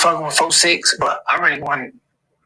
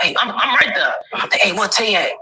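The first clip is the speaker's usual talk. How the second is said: retold police chatter, pitched higher; imitated police; 4 semitones higher than usual. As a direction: mimic officers calling out, a bit higher. Acting out police calling after him.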